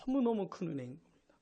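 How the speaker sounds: "너무너무" soft and low; hushed emphasis. Real, not acted. First, softer statement of grace. (낮고 작은 소리로 강조)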